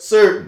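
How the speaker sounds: sit in the E of "certain"; "certain" with its first vowel held; leaned-on vowel. Shown as a demonstration. Showing how locals say it, "certain" with E leaned on. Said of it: "the vowels that we sit in more".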